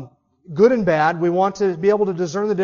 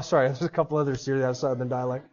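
laughing apology; 5 semitones lower, 6 dB quieter, faster than usual. Real, not acted. Correcting himself, laughing.

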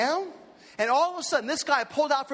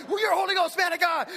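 excited shout; 5 semitones higher than usual. Retold or imitated. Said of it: "he's, like, crumping over me".

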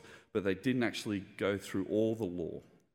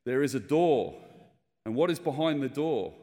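louder, higher preacher asking the crowd; preacher's booming question; 5 semitones higher, 6 dB louder than usual. Retold or imitated. Preacher at a funeral asking the congregation, booming. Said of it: "the preacher gets up and he says to the congregation".

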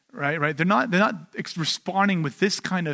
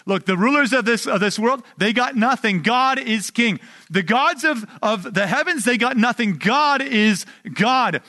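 aggressive in your face; 3 semitones higher than usual. Retold or imitated. Preacher voicing the psalm's taunt at rival kings, raised and defiant. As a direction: throw it down like a rap put-down. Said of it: "an aggressive, like".

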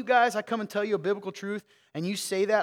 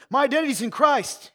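mock pious churchgoer; 6 semitones higher, 6 dB louder than usual. Mocking a churchgoer's excuse.

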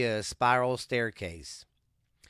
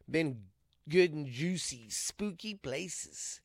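stretching groan; 5 semitones higher, 4 dB quieter, slower than usual. Real, not acted. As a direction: voice strained mid-stretch. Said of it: "sorry, I'm stretching".

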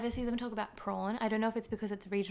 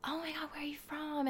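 Bronx guy; 7 semitones higher, 8 dB quieter than usual. Retold or imitated. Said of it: "he said".

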